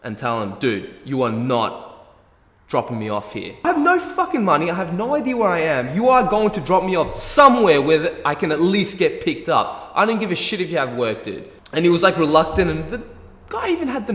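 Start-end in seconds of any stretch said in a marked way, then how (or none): 0.6-11.5 much higher and louder, furious refusal; standing my ground. Retold or imitated. Stranded passenger yelling at the driver, furious refusal. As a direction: yell at him that you won't be dumped here. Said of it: "I was firm enough to stand my ground".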